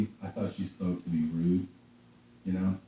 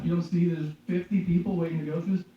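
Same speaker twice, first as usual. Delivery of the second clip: higher-pitched sarcastic griping; mock exasperation; 8 semitones higher than usual. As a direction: needle them for holding up the line. Acted complaint at slow line.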